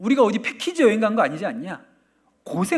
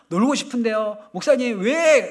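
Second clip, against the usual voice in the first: put-on louder, higher pleading child; child whining at the pastor; whiny kid; 5 semitones higher, 4 dB louder than usual. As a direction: whine like a kid who wants to play.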